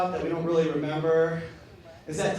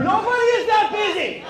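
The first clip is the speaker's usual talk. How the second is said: higher, exasperated outburst; disgusted rant; 10 semitones higher than usual. Real, not acted. Outraged at toilet.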